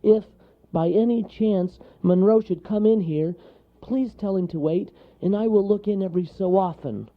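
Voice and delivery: high, anxious, careful request; jittery little storybook character; tight with fear. A narrator's reading. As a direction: plead politely in a nervous high voice. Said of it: "his voice tight with fear".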